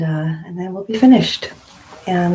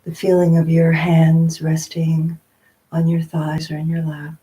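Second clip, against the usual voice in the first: unhurried meditation guidance with long pauses; guided meditation. Real, not acted. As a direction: gently guide them into stillness, phrase by phrase.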